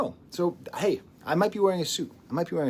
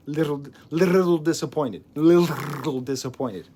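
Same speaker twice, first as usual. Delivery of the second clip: mock disappointment; 5 dB louder than usual.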